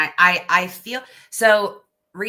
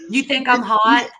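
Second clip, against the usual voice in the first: mock flirty reply; 4 semitones higher, 6 dB louder than usual.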